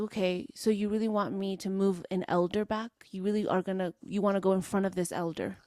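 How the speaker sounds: understated, weary challenge in a level voice; serious, tired. Retold or imitated. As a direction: retell a tired, dead-serious question. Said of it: "I said it like that. And I was, like, serious. Like, I'm, like, tired".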